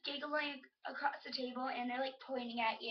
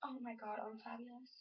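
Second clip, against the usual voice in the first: softly put-on girly-girl voice; hammed-up girly girl, trailing off softly; 11 dB quieter than usual. Girly girl admiring herself, mock-fabulous. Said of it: "some girly girl who goes".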